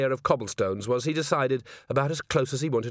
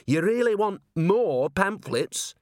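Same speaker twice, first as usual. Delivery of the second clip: high, slow, incredulous question; hopeful disbelief, pitched up; amazed hope; 8 semitones higher, 3 dB louder, slower than usual. Acted. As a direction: ask it as if it's too good to be true. Disbelieving zealot's hope as eyes gleam.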